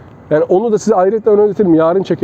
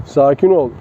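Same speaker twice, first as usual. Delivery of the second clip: calming command; 4 semitones lower, slower than usual. Shown as a demonstration.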